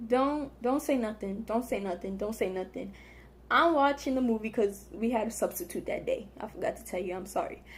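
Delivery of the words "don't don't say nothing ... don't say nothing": fading to a hush; quietly tells herself to keep out of it; muttering to herself. Retold or imitated. To herself in class, fading hush.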